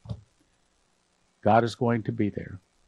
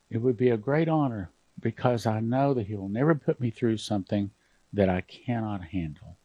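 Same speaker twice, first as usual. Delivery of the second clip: emotional prayer; 4 dB quieter than usual. Real, not acted. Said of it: "I'm getting emotional here".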